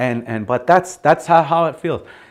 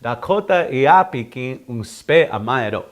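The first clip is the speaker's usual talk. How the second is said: phrase closed on a falling "amae do"; "do" ending added. Shown as a demonstration. Teacher models the phrase with do, falling ending. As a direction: end "amae do" with a firm drop. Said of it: "then I'll do the do".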